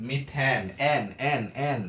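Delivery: মিথেন with the ending এন repeated, punched; ending drilled. Shown as a demonstration. Teacher shows students the pronunciation, punching the ending. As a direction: drill the sound এন again and again. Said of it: "দেখো উচ্চারণটা দেখো".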